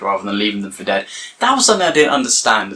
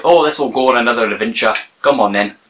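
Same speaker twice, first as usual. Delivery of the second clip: bad attempt at a Yorkshire accent; mock Yorkshire accent, hammed up; faster than usual. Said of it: "That was not a Yorkshire accent".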